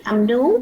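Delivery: "nú" said loud, clear alveolar n; target sound n. Shown as a demonstration. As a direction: press the tongue up for "nú". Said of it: "Tại vì nó là âm gì?". (phát âm rõ "nú", lưỡi chạm nướu)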